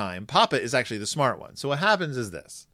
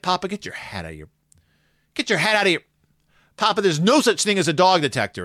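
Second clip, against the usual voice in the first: exasperated cubs; 5 semitones higher, 3 dB louder, faster than usual. Retold or imitated. Cubs scolding Papa.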